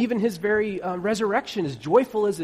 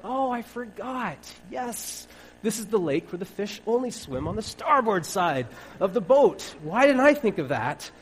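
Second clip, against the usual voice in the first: sarcastic; 3 semitones higher, 4 dB louder than usual. Retold or imitated. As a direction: roll your eyes at the advice. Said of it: "sarcastic fisherman reply".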